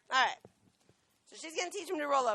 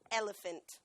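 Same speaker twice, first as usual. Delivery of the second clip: a little lower; 2 semitones lower, 3 dB quieter than usual. Shown as a demonstration. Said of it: "So a little bit lower".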